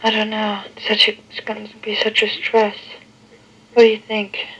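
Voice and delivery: tinny answering machine recording. Real, not acted. Played answering machine tape.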